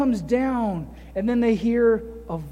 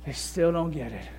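quiet Jesus; 6 semitones lower, 6 dB quieter than usual. Retold or imitated. Jesus quietly telling the Father in the boat, low and weary. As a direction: lower and softer, weary sigh of a prayer. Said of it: "Jesus just quietly said".

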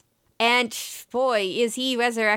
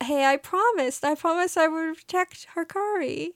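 real tearing up; 8 semitones higher than usual. Real, not acted. Podcaster retelling a sad scene, nearly crying. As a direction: voice rising higher, on the edge of tears. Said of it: "I'm starting to tear up".

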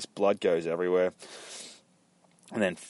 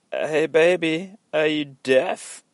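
high, slow, drawn-out catcall; 9 semitones higher, 6 dB louder, slower than usual. Acted. Character pestering a woman, mock high catcall. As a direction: call out loud and stretched, pitched up.

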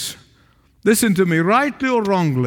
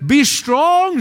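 higher, ringing "Be strong"; "Be strong" lifted high and ringing; proclaiming command; 6 semitones higher than usual. Acted. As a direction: call it out like a prophet. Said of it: "he said".

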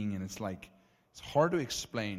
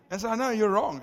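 half-joking loud brag, much higher and louder; emphatic boast; 12 semitones higher, 10 dB louder than usual. Real, not acted. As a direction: proclaim it with cheeky pride to the crowd. Mock-boasting, louder to crowd.

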